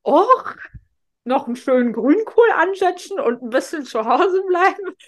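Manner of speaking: high, contented stay-at-home musing; cozy homebody sigh. Retold or imitated. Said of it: "inzwischen denke ich aber".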